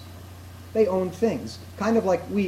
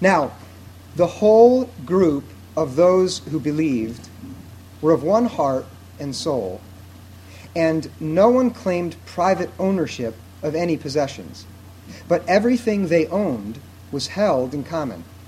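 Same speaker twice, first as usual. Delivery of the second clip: slow, unhurried reading aloud. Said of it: "I'm gonna read it slowly".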